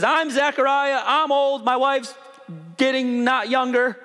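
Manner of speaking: mock the fretful old priest lightly; whiny old Zechariah.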